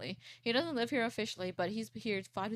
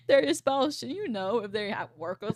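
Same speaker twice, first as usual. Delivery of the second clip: louder, incredulous point to the listeners; exasperated; 3 semitones higher, 6 dB louder than usual. Real, not acted. Calling out clueless spouses, loud and incredulous. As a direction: spell out the obvious with disbelief. Coworkers asking about spouses at work.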